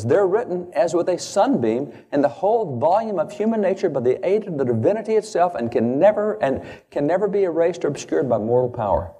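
high, swelling quotation voice; oratorical recitation. Acted. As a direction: declaim it high, like a grand founding text.

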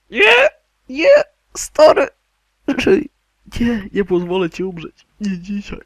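high, loud cries of refusal; desperate shouting. Pretend. Gamer begging a dying companion to live, desperate high shout. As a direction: cry out as if losing a friend. Pleading with dying game character.

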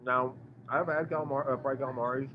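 chewing while talking; words around a bite of food; mouth full. Real, not acted. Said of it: "talking with my mouth full".

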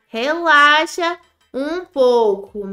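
Relaxa um pouco stretched very slowly; slow soothing relaxa. Acted. To the anxious character, a drawn-out calming relaxa. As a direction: soothe her, drawing out each word.

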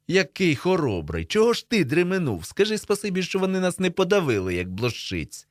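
high, indignant mockery; sarcastic retort. A narrator's reading. Boys quarrel, sarcastic retort.

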